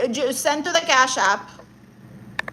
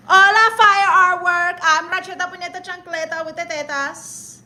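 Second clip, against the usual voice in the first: put-on persona voice; 5 semitones higher than usual. Streamer greets in persona voice.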